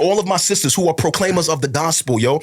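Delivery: fervent, pleading sermon cadence; impassioned preaching. Real, not acted. Pastor urging brothers and sisters back to scripture, impassioned preaching. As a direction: drive each repeated appeal home like a preacher.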